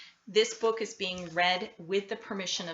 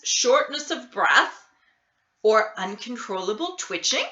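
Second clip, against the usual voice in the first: fussy doctor; 5 dB louder than usual. Acted. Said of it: "Doctor Bumble".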